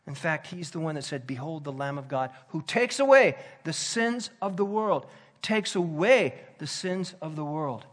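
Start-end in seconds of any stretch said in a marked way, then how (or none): 1.3-7.8 loud, ringing proclamation; proclaiming. Retold or imitated. Preacher quoting John the Baptist to the crowd, loud and ringing.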